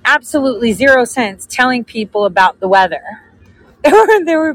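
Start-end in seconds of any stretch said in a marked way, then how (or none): none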